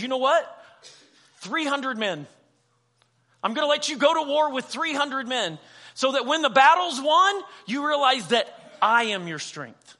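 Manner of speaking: God declaring loudly. Retold or imitated. Preacher voicing God's firm verdict to Gideon, loud and emphatic. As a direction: announce it with full authority. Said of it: "So God goes".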